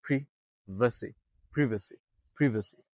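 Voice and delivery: privacy drawn out slowly, short i, "PRIV-uh-see"; slow British privacy drill. Shown as a demonstration. Teacher drills the class in slow British privacy. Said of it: "Repeat after me".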